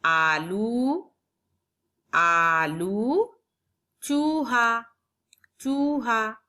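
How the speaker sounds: तरबूज with the ऊ drawn out slowly; slow, long ऊ. Shown as a demonstration. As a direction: stretch the ऊ in तरबूज. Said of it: "लंबा होता है". (तरबूज में ऊ लंबा खींचकर)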